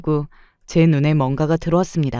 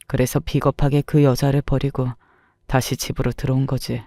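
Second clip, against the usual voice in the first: lightly voiced husband, subdued and regretful; understated, even-toned male confession; confessing husband; 2 semitones lower than usual. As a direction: confess the past haltingly.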